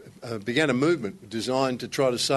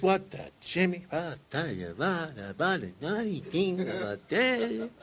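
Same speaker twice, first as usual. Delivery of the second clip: frustrated golf mutter; 6 dB quieter than usual. Acted. Muttering after a missed putt.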